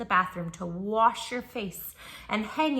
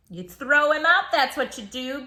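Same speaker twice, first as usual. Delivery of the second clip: high, loud declaration; emphatic answer; 6 semitones higher, 11 dB louder than usual. Acted. Reader tells kids to throw the llama out, loud and high. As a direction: announce it with gusto.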